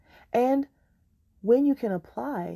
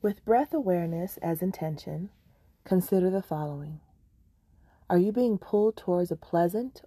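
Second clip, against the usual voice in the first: measured meditation voice with long pauses between phrases; unhurried meditation teacher, leaving room to breathe; guided meditation. Acted. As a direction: guide them gently, phrase by phrase.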